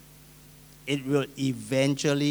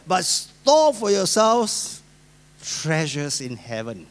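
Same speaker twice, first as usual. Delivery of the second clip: slow scripture proclamation; 3 semitones higher, 5 dB louder, slower than usual. Retold or imitated. Quoting Sermon on the Mount.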